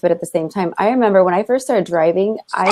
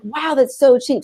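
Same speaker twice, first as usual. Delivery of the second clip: slow, higher-pitched mock wow; retold amazement; 6 semitones higher, slower than usual. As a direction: re-enact naive amazement, drawn out. Acts out past amazement at prices.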